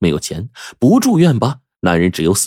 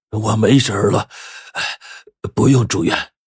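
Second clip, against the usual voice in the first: strained, slightly higher sick man's voice; feigned recovery; 4 semitones higher than usual. A narrator's reading. Patient tells doctor he needn't stay, strained insistence. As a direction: insist through weakness, in short halting pieces. Sick man refuses hospital admission.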